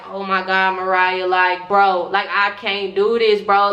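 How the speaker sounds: low and rising in volume, scared; a frightened hushed panic that swells; panicked. Retold or imitated. Boy hiding in the bathroom, panicking to his friend. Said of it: "I'm sitting in the bathroom like".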